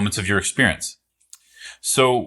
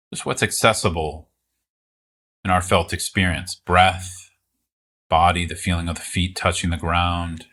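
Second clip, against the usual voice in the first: calm, unhurried guiding with long pauses; guided meditation. Real, not acted. Teacher guiding listeners to meet the present moment, calm meditation voice. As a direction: ease listeners into it, leaving space between phrases.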